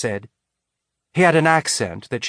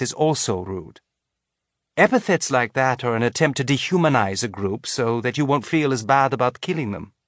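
gentle; 3 semitones higher than usual. Acted. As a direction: gently correct the group. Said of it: "keeping her voice gentle".

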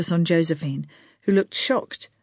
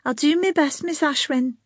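muttered; 9 semitones higher than usual. A narrator's reading. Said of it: "she muttered".

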